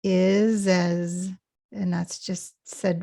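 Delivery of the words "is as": IS AS run together as one; linked together. Shown as a demonstration. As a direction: join IS to AS with a Z. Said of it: "quietly and linked together".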